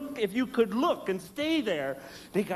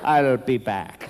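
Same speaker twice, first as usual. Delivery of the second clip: menacing roach; 7 semitones lower, 6 dB louder, slower than usual. Pretend. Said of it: "the roach is going".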